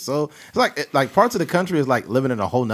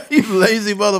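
high, loud, laughing insult; 10 semitones higher, 5 dB louder, faster than usual. Real, not acted. Laughing at fake Spanish.

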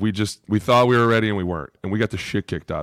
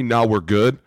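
mocking the coach; 3 semitones higher, slower than usual. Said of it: "this fucking guy says to me".

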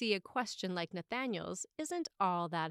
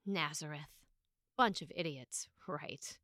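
dismissive; 4 semitones lower, 3 dB quieter than usual. Retold or imitated. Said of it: "And it's dismissive".

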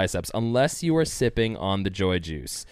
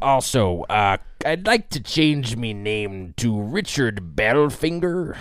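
pirate voice; 2 semitones higher than usual. Pretend. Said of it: "pirate guy".

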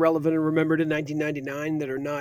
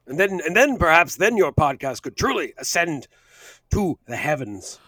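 Gambon impression. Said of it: "Wow, Mister Gambon".

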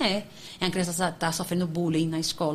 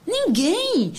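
ênfase enfática; 10 semitones higher, 4 dB louder than usual. Real, not acted. Resposta enfática à pergunta retórica.

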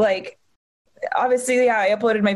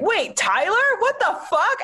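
retold shock; 11 semitones higher than usual. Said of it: "and I'm like".

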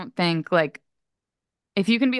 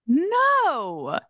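flat refusal; 13 semitones higher than usual. Retold or imitated. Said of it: "and I was like".

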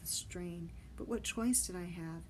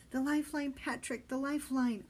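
high urgent shout across the deck; Benny shouting for the boy to grab the rope; 6 semitones higher, 5 dB louder than usual. Acted. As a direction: yell the warning over the chaos. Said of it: "I heard Benny shouting at me".

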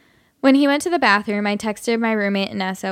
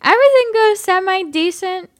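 put-on drunk voice. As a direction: play a sloppy drunk guy. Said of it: "I'll just do my drunk voice".

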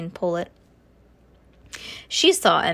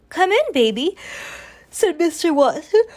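high cooing voice; 7 semitones higher, 4 dB louder than usual. Acted. Mr Watson greets Baby.

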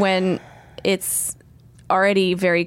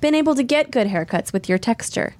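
higher, sugary fake-nice praise; patronizing fake praise; 5 semitones higher than usual. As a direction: compliment that secretly insults. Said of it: "a little too good at it".

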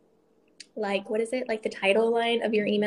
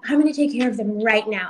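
imitating the manager; 5 dB louder than usual. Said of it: "and she's like".

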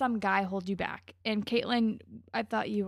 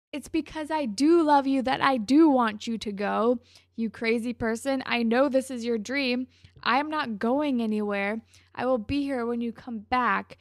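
firm, louder declaration with stressed words; acted boyfriend's exasperated reassurance; emphatic insistence; 2 semitones higher, 6 dB louder than usual. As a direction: drive each promise home. Retold boyfriend insisting in the quarrel.

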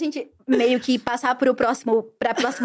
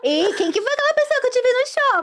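high-pitched mock nosy pupil; prying pupil; 10 semitones higher than usual. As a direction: pipe up like a student fishing for gossip. Voicing a pupil prying into teacher's life.

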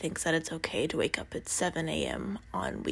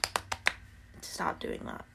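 cracking morning voice; 6 dB quieter, much slower than usual. Real, not acted. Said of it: "I need my morning voice to".

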